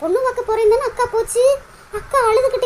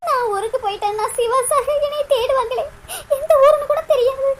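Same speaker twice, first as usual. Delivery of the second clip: sobbing lament; 4 dB quieter than usual. Acted. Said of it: "நீ இப்படியே சோகமா அழுதுகிட்டு".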